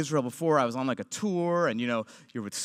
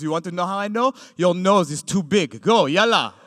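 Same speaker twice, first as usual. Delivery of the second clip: soldier dismissing; 3 semitones higher, 7 dB louder than usual. Retold or imitated. Soldier dismissing the comic with an insult and yalla. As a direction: wave him off with contempt. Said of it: "He goes".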